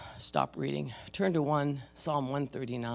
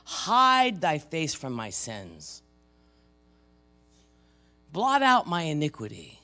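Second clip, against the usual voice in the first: fervent plea; 3 semitones higher, 5 dB louder than usual. Acted. Preacher voicing David's plea.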